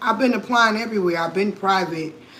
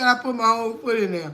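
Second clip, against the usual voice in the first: laughing; 2 semitones higher than usual. Real, not acted. Quoting friend while laughing.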